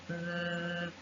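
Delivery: "mm" as a soft buzzing th, tongue on teeth; th sound. Shown as a demonstration. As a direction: hum a voiced th between the teeth. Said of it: "like this".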